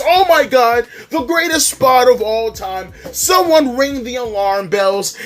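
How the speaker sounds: sarcastic imitation of a thrilled wrestling crowd; mock hyped audience. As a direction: ham up a fan losing their mind over a spot. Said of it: "The audience losing their minds".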